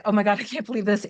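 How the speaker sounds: quick, retold comic fluster; mock freak-out. Client freaking out before his visit, comic rushed fluster. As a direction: rush it out like a playful freak-out. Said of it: "starts to freak out, but in a really funny way".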